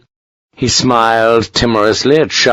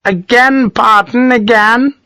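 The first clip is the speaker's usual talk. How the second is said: high, insistent command; demanding colonel; 13 semitones higher, slower than usual. A narrator's reading. Colonel ordering his doctor to bleed him, insistent. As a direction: insist in a sharply raised pitch.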